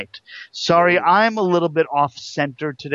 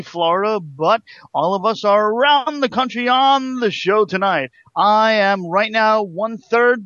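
booming radio show announcer voice; hammed-up big announcer intro; 3 semitones higher than usual. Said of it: "Not only is your announcer voice horrible".

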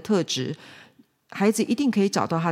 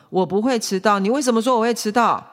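put-on higher, indignant child talking back; protesting child; 5 semitones higher, 5 dB louder than usual. Child answering father from bed, higher protest. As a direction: argue back from bed, pitched up. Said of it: "那孩子就回答".

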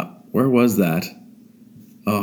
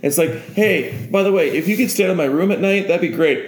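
lightly acted higher, polite voice; friendly housemate; 8 semitones higher than usual. Man to spider about his room, lightly acted polite request. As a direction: ask nicely in a raised, casual voice. Human chatting with talking spider.

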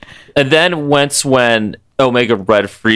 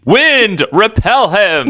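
mock scream; 9 semitones higher, much slower than usual. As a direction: bellow it like a weather goddess. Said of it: "by screaming".

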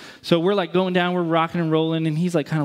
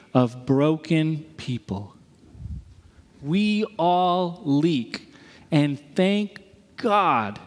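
slow, weighty sermon delivery; slow preaching; much slower than usual. Acted. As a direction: lean on each phrase like a closing message.

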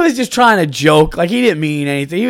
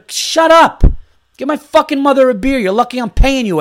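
mock angry; 9 semitones higher, 5 dB louder than usual. Angry rant about mother's beer.

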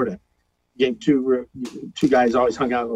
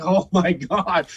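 slow overwhelmed groan; 2 semitones higher, much slower than usual. Retold or imitated. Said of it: "I'm like".

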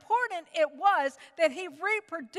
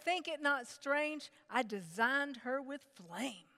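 slow, softer divine reassurance; a touch of God's calm voice; 6 dB quieter than usual. Retold or imitated. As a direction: say it calmly, like a gentle answer. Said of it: "And God told me, he said".

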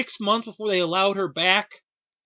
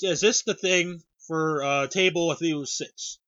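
calm manner. Retold or imitated. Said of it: "in the most calm manner".

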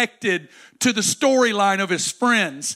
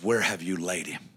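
hushed Jesus; 13 semitones lower, 7 dB quieter than usual. Acted. Jesus voiced quietly in the retelling.

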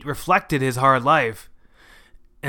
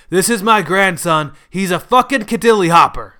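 raised, louder boast; proud introduction; 5 semitones higher, 6 dB louder than usual. A narrator's reading. Grandfather introducing his grandson to his friends, proudly. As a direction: show him off loudly and proudly. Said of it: "He proudly introduced me to his friends".

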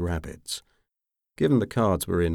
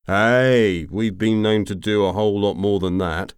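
protest; 4 semitones higher, 7 dB louder than usual. A narrator's reading. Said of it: "Anatin protested".

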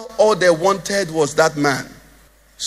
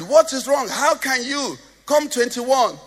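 angry mom; 4 semitones higher, slower than usual. Retold or imitated. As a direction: scold the son about his grade like an angry mother.

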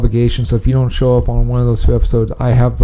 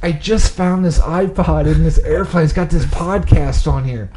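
a hint of Kate, slow and a bit higher; lightly voiced Kate; 4 semitones higher than usual. Kate tells Jack she found the podcast, lightly voiced. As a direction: play Kate, unhurried, handing over the iPod. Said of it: "I'll be Kate".

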